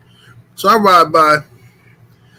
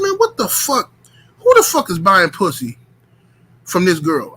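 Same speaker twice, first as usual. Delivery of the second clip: horrified disbelief; 3 semitones higher than usual. Retold or imitated. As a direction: voice shooting way up on what the fuck. Retold horrified reaction.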